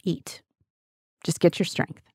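a near-hushed, tender nudge to eat; quiet tender urging; soft coaxing. Acted. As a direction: coax a worn-out man gently. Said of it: "He provided for him physically".

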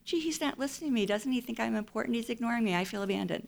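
put-on mild wounded little-kid plea; hint of an abandoned five-year-old; hurt inner child. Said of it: "That's an inner child".

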